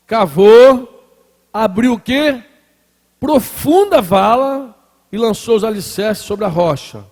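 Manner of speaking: preacher declaiming the parable in stretched phrases; emphatic scripture reading. Acted. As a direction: proclaim the passage, punching key words. Reads scripture aloud while preaching.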